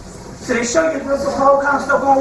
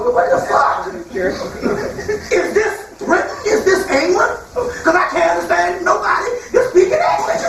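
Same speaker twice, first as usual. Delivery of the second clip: confused outburst; 4 semitones higher than usual. Retold or imitated. Italian guy confused in England.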